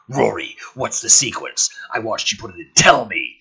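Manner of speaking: calls out loud, urgent; yells. Acted. McKenna yelling to Rory for the code, urgent call. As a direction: shout the question up at him, demanding.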